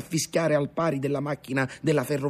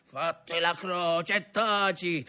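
higher, slow insistent order; stern command; 5 semitones higher, slower than usual. A narrator's reading. Grandfather silencing the frightened boy, stern command. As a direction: order it firmly, word by word. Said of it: "ripeté il nonno".

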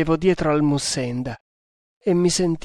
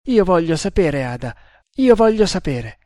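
louder, escalating demand to know; insistent demand; 4 semitones higher, 5 dB louder than usual. Acted. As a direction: demand it, then hit the repeat higher and harder. Man demands answers, narrated as furious. (pretesa insistente, in crescendo)

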